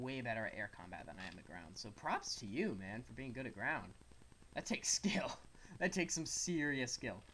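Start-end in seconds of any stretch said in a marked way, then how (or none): 4.5-7.2 laughing half-whisper. Real, not acted. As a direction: whisper it admiringly. Admiring aside, whispered.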